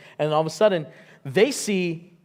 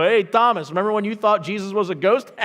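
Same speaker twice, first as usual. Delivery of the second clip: teasing friends; 4 semitones higher, 5 dB louder than usual. Retold or imitated. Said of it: "they're gonna go".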